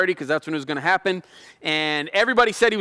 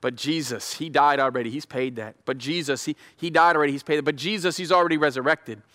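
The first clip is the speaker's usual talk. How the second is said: gentle lawyer pleading for a friend; calm defending advocate; 3 semitones lower than usual. Acted. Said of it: "our advocate keeps saying".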